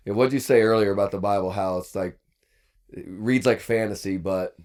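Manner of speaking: talking while chewing an apple; words around a bite of apple; mouth full. Real, not acted. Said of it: "as he's chomping on an apple".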